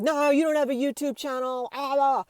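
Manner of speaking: high mocking imitation of a disbelieving man; aggressive dismissal. Store worker dismisses the woman's channel, mock-aggressive. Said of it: "this guy, like, aggressively".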